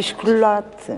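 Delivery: Iscolate with a leading ish sound; São Miguel pronunciation. Shown as a demonstration. Colleague echoing the island word, Iscolate. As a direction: say chocolate as Iscolate, island style. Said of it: "em São Miguel dizia-se iscolate".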